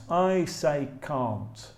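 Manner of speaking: "can't" with a long open ah vowel; British "can't", vowel drawn from the back. Shown as a demonstration. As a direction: say "can't" the English way, with ah. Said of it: "because I'm from England".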